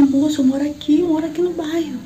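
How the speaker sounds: telling the policeman she lives here; agitated plea. Retold or imitated. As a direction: plead urgently with the officer. Pleading with the policeman.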